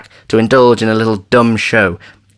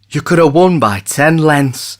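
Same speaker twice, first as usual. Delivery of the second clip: in wonder; 7 semitones higher, 4 dB louder than usual. Acted. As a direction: echo it in disbelief. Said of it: "repeated Maynard in wonder".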